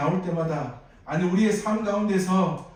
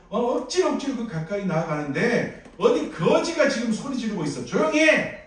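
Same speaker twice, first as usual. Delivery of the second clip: scolding; 3 semitones higher than usual. Acted. Crowd scolding blind beggar, mild mock rebuke. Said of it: "하면서 이 바디메오를 나무랍니다".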